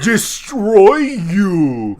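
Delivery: very slow, laughing brute voice; laughing through a hammy threat; barbarian. Retold or imitated. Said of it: "impression of him".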